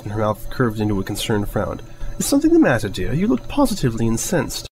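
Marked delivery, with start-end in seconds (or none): 2.2-4.7 much higher, a touch of refined concern; a hint of an elegant mare asking her friend what's wrong; lightly voiced Rarity. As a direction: lift into a genteel lady's tone, lightly.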